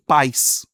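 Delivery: "Pais" as a single emphatic beat; one syllable. Shown as a demonstration. Teacher demonstrates the monosyllable Pais, one firm beat. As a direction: keep the "ai" of "Pais" glided together. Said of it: "É um monossílabo".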